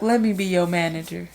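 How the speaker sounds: lightly voiced smooth R&B singer pitching himself; a hint of a crooner offering to manage you; R. Kelly impression. Quoting the singer's line to her cohost, lightly imitated. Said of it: "He'd be like".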